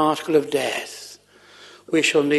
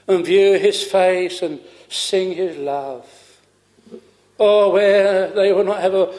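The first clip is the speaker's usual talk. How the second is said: raised, drawn-out preaching cadence; fervent preaching; 2 semitones higher than usual. Real, not acted. Preacher picturing heaven's glory for the congregation, fervent preaching. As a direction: preach it with swelling fervour.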